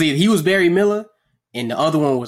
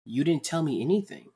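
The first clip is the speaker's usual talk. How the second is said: complaining to Pete; 6 semitones higher than usual. Pretend. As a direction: build the grievance, rising higher. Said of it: "But, but Pete".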